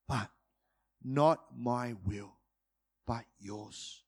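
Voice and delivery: surrender. Retold or imitated. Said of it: "he's crying out to God".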